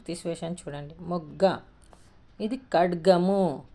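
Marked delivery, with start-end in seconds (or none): 2.6-3.6 ఖడ్గము slowly, with the middle డ clearly sounded; careful pronunciation. Shown as a demonstration. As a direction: stretch ఖడ్గము out syllable by syllable. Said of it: "మనము పలుకుతాం".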